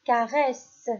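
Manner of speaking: "caresse" projected clearly, falling; teacher calling out "caresse"; loud dictation. Shown as a demonstration. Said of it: "Je répète".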